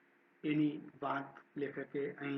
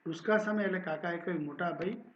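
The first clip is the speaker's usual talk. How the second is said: steady, clear story narration; story reading. A narrator's reading. Teacher reading a Gujarati story aloud to students, steady narration. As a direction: read the story to the class.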